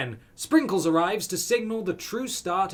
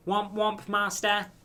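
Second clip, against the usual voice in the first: robot voice; 6 semitones higher, slower than usual. Acted. Robot character Clank.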